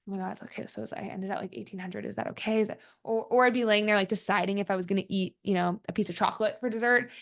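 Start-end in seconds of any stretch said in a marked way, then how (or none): 0.1-2.8 softer, worried self-talk; imitating her own anxious late-night counting, much softer; anxious inner voice. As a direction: fret quietly over the number. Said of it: "I'd be like".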